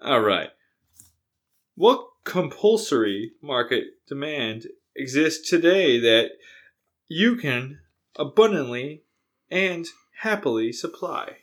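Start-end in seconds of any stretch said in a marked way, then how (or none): 1.8-11.4 measured reading with pauses; calm. Real, not acted. Reading the question to a friend, calmly this time. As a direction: read it out evenly, phrase by phrase. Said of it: "I said that all calmly this time".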